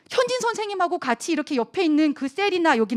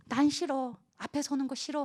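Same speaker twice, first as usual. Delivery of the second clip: soft, retiring little protest; shy refusal; 8 dB quieter than usual. Acted. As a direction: shrink from the spotlight. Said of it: "그의 생애가 어땠다고요".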